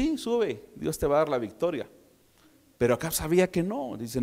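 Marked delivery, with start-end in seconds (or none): 0.0-1.9 a touch of mock agreement, first word pitched up; ironic. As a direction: say it with light irony, not meaning it. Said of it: "irónicamente le dice".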